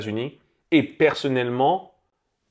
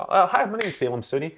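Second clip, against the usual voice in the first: put-on casual American-accented self-introduction, pitched up; easy American accent, slightly higher voice; practised American introduction; 5 semitones higher than usual. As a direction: introduce yourself as an American would. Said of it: "la façon dont je disais ça".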